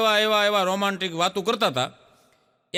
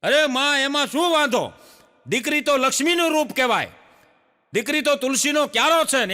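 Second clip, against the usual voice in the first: neighbour women consoling; 6 semitones higher than usual. Acted. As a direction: comfort the old woman, like fussing neighbours. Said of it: "એમ બધી માવડિયું બોલવા મળી".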